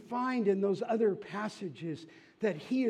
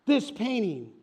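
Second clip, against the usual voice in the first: high, loud, fed-up yell; angry shout; 7 semitones higher, 9 dB louder than usual. Acted. An angry bidder shouts at the auctioneer, high and loud. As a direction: demand the famous paintings at full volume. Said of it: "And another shouted".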